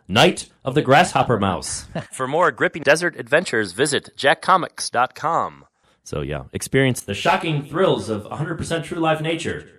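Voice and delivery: high, excited old-time cartoon announcer; hammy trailer voice for a kids' cartoon. Shown as a demonstration. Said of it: "I should use, uh, the cartoon voice".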